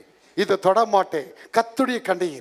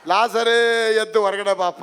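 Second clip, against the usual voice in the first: drawn-out summoning call, mildly raised; 3 semitones higher, 3 dB louder, slower than usual. Retold or imitated. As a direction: call a man out from afar. Acts Jesus calling Lazarus out. (ಕೂಗಿ ಕರೆಯುವಂತೆ)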